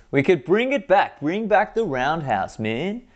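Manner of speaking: rally it like a slogan; excited. Real, not acted. Repeated idea, said excitedly.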